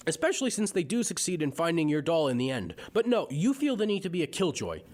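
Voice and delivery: carried-away rant. Real, not acted. Reviewer telling off Candace over narrations, carried-away irritated rant. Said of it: "I got a little carried away there".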